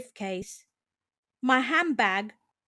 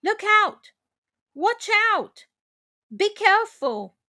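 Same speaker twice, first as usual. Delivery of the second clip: warning shout; 5 semitones higher than usual. Shown as a demonstration. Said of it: "Warning someone of danger".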